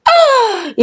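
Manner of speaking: scornful exclamation. Acted.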